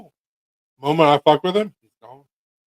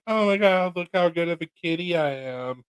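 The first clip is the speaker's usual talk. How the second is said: cat voice; 5 semitones higher, 4 dB quieter than usual. Retold or imitated. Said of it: "You were like".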